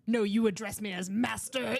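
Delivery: mock imperious. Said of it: "It seemed like".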